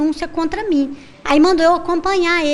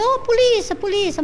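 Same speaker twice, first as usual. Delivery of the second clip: higher-pitched imitation of calling the police; mild mock cry for help; retold call for help; 8 semitones higher than usual. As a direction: re-enact calling out for help, without real shouting. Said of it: "começou a pedir ajuda".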